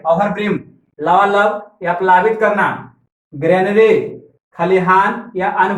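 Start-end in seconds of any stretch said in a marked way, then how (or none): 0.0-0.6 ओवरब्रिम्ड said with its start read as "over"; pronunciation with "over". Shown as a demonstration. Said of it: "इसको ओवर पढ़ेंगे". (ओवरब्रिम्ड में शुरू में "ओवर" का उच्चारण)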